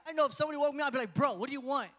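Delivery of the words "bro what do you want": loud, exasperated retort on being woken; mock upset. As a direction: push back, mildly annoyed. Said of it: "I would probably gotten upset".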